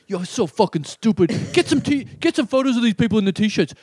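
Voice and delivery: mock-irritated tirade, pitch climbing; retold rant. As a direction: act out a friend's worked-up griping. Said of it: "Ronnie was hitting me up going".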